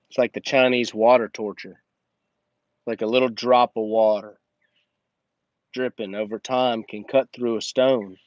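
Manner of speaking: ordinary delivery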